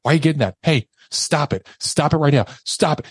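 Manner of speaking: retold alarmed demands. Girlfriend reacting to him getting the pistol, urgent retold demands. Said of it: "she's like".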